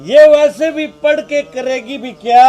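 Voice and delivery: angry dismissal. Acted. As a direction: brush it off with an angry shout. Husband dismisses daughter's schooling. (गुस्से में ऊँची आवाज़)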